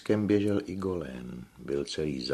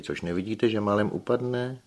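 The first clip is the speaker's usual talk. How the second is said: výkřik; 6 semitones higher than usual. A narrator's reading. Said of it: "vykřikla Magali".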